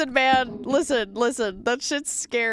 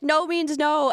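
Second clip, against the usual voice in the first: mocking women; 4 semitones higher, slower than usual. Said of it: "Women wanna be like".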